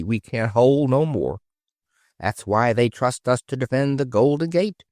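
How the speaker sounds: a hint of a simple, proud porpoise; lightly voiced porpoise. Porpoise telling Kathy it will guard the gate, lightly voiced.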